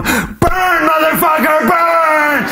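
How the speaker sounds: very high mock scream, held out; frenzied high-pitched yell; wild cheering. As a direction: imitate a crazed reveler screaming at a fire. Acts dude cheering on the fire.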